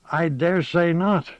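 lightly voiced old gossip; a hint of a sly old woman; old village witch. Witch Moss replies.

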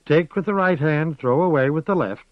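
put-on old witch reciting a saying. A narrator's reading. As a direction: deliver it like an old proverb.

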